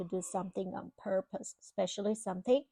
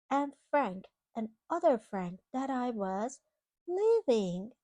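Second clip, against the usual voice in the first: put-on storybook reading to a child; reading to children. Parent reading a storybook to a child, gently. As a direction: read it like a bedtime picture book. Reading picture book aloud.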